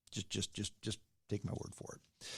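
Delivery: whispered ironic aside. Real, not acted. Joking after urging listeners to research, whispered. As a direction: breathe it out as a sly joke.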